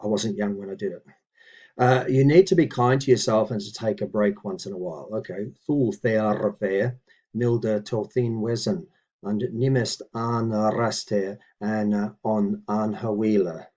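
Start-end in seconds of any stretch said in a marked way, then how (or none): 5.7-13.7 slow, deliberate recitation of each word; measured teaching read; careful Old English reading. Shown as a demonstration. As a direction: read it out slowly like a model sentence. Reads Old English sentence slowly.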